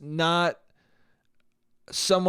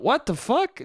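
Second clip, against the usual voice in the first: high, incredulous mock disgust; acted-out appalled question; 9 semitones higher than usual. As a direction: blurt it naturally, pitch jumping up in disgust. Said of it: "just a disgusted".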